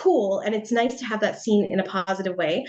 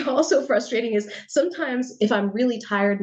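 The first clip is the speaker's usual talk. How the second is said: ordinary talk, nothing marked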